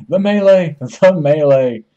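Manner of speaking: loud cry in the heat of the fight; excited shout. Real, not acted. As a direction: shout it out mid-brawl. Excited shout during a game fight.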